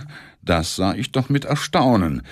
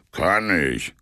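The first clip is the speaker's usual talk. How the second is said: grunted; 2 semitones lower than usual. Acted. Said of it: "grunzte Semjonitsch".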